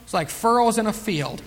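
ordinary talk, nothing marked

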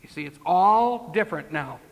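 ordinary talk

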